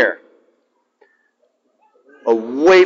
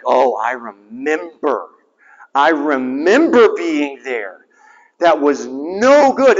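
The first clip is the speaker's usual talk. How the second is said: weary remembering; 2 semitones lower, slower than usual. Retold or imitated. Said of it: "you're looking at me like".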